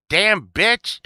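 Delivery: high, loud catchphrase shout; mock outburst. Driver who got cut off in traffic, mock outburst. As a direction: yell it playfully at a passing driver.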